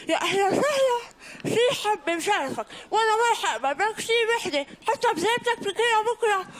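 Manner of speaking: high, loud, overly sweet hostess; fussy hostess voice. Retold or imitated. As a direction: gush over the guests like mom. Mother voiced welcoming guests.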